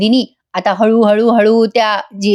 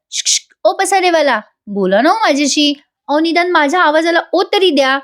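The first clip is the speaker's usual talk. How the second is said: pleading sweetly; 6 semitones higher than usual. Acted. Nandini pleads through door.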